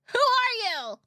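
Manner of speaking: high, loud startled "who are you"; shocked question. Retold or imitated. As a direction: blurt it out in surprise. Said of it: "people who haven't seen me in a long time goes".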